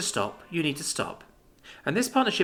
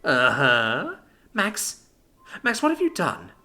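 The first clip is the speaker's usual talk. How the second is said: horrified; 6 semitones higher than usual. Acted. Libby horrified at outside.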